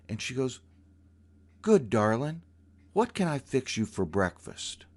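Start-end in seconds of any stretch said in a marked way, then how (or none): 1.6-4.9 higher, lilting coaxing voice; sweet lilting voice. Retold or imitated. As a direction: coax sweetly, sing-song. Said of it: "her voice completely changed".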